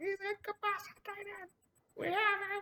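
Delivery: shrill, grating, very high-pitched voice. Game master voices a woman heard over the radio, high-pitched annoying voice. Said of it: "high pitched annoying voice going".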